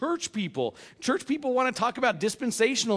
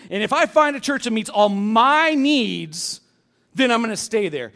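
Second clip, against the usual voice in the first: selfish demand. Pretend. Selfish attitude voiced.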